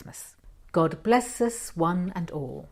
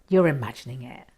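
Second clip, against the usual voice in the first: brisk, lower dismissal; dismissive; 5 semitones lower, 4 dB louder, faster than usual. Acted. Myra dismisses her friend's worry, brisk and lower. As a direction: brush it off quickly, a bit fast.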